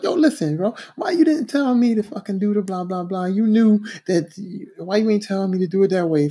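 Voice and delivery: high-pitched retold complaint; mad retelling. Apprentice confronting the foreman, mad. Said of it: "so I'm mad".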